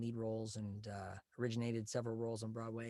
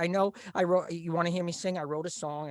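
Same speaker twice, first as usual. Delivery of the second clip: lightly voiced nerd; 5 semitones higher, 6 dB louder than usual. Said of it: "I went, I said".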